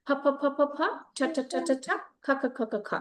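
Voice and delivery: rapid repeated puffs on "ফ", "ঠ", "খ"; staccato aspirated "ফ", "ঠ", "খ"; aspirated sound drill. Shown as a demonstration. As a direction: drill "ফ", "ঠ", "খ" in rhythmic bursts. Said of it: "সেটা প্র্যাকটিস করেছিলাম".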